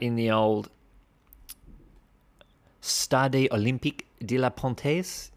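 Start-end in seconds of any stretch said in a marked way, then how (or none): 2.8-5.3 rolling the French words like a local; mock French accent. Shown as a demonstration. Reading the Lausanne results in a jokey French accent. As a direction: place name in a hammed-up French accent. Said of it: "fantastic French accent there by myself".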